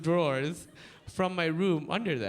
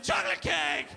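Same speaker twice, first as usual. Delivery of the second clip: mock panicked yelp, higher; a lighter panicked shout; panicked cry; 8 semitones higher than usual. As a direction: blurt it out in fear. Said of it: "panicked cries of".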